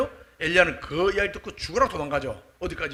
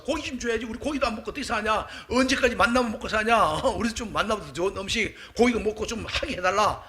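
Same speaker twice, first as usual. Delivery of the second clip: imitated crowd grumbling, raised pitch; protesting demand; 3 semitones higher than usual. People demanding meat from Moses, acted indignant protest. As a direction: press the complaint like a protester. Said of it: "막 백성들이 막 데모하는 겁니다".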